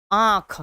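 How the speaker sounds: आँख with the vowel through nose and mouth; nasalised vowel. Shown as a demonstration. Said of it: "नाक और मुंह दोनों से उच्चारित".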